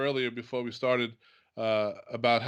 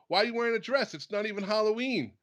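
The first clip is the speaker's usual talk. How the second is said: put-on higher-pitched kids' taunt; lightly voiced mocking children; mocking kids; 7 semitones higher than usual. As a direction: mimic the teasing kids from the ad. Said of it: "they go".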